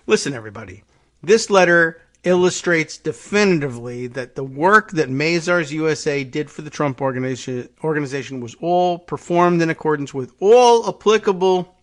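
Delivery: a light New York accent, mocking the company statement. Voicing the Trump Organization's statement in a mild New York accent. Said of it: "now that's my New York accent".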